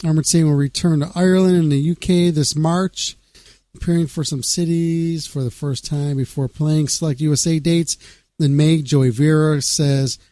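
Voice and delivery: music news read aloud in even phrases. Acted. Radio host reading a band's news to listeners, news read. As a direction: read out the band's press release.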